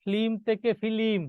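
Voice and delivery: slow ফিল্ম, first flim, then split into fi-lim; inserted vowel. Shown as a demonstration. Teacher asks class to name the change, slow pronunciation contrast. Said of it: "কি হবে বলেন?".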